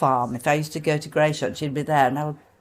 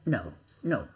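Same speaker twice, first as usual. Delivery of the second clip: imitating Olivier; 8 semitones lower than usual. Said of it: "and he said".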